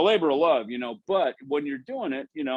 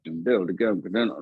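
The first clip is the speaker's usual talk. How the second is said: quick sung-syllable bass lick; mouthed bass riff; 4 semitones lower than usual. Shown as a demonstration. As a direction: rattle off the bass part with your mouth. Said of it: "part in a song".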